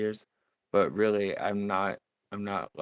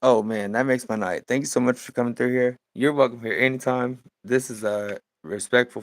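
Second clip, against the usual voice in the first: louder, excited thanks; delighted welcome; 4 semitones higher, 7 dB louder than usual. Real, not acted. Painter thanking a stream visitor, delighted. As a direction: greet a newcomer with real, loud delight.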